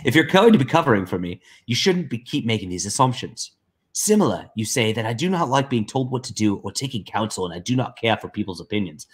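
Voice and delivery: lightly put-on voice reading a message; Liam. Co-host reading Liam's message aloud, lightly mimicked voice. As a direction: lightly imitate the writer, voice a touch lifted. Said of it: "I'll try to read it in, uh, in, in Liam voice".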